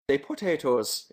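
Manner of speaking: slow, hammed-up Irish accent; put-on Irish lilt, drawn out; mock Irish accent. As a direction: read it in a bad Irish accent. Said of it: "in an Irish accent".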